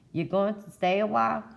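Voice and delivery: townsfolk's eager question. Acted. Townsfolk quizzing a returning neighbour, high and curious.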